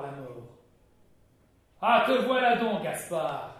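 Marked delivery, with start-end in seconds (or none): 1.8-3.5 high, louder gloating cry; triumphant. Acted. Duke of Guise gloating over the admiral's body, triumphant. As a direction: crow over the fallen enemy. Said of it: "dit le duc de Guise triomphant".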